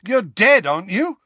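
high, loud challenge; exasperated. A narrator's reading. Harry challenges the evasive ghost, exasperated.

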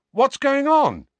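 alarmed surprise. A narrator's reading. Ron arriving at the doorway, high and startled. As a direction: burst in alarmed.

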